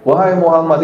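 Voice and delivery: lightly voiced jealous wife; a touch of jealous reproach in the name. Preacher voices Aisyah jealous of Khadijah, lightly. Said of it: "ini lagi cemburu".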